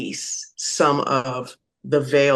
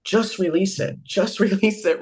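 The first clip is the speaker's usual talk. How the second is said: higher-pitched mock coaxing, lightly voiced; playful repeated urging, a little higher; insistent advisor; 4 semitones higher than usual. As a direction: imitate someone nagging in another's ear. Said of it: "there's a person in their ear like".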